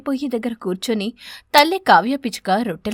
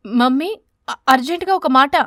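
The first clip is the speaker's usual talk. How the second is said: calling out; 5 dB louder than usual. Acted. Son calls his mother urgently.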